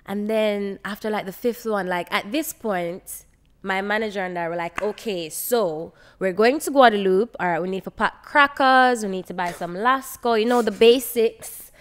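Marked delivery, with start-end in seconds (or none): 4.8-11.7 excited. Retold or imitated. Excitedly retells planning to go.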